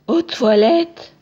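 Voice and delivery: loud, drawn-out exclamation; hammed-up loud announcement; playful outcry. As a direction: call it out slowly and loudly, stretching the word. Playful outcry about toilets.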